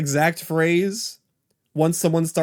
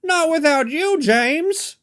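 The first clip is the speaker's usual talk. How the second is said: fighter pilot; 12 semitones higher, slower than usual. Retold or imitated. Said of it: "talking like a fighter pilot".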